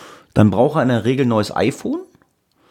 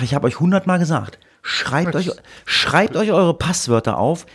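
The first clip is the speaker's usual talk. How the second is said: higher, raised voice lecturing, fed up; exasperated scolding; 6 semitones higher than usual. Retold or imitated. Son retells scolding his parents about passwords, exasperated. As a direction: tell them off like you've said it a hundred times.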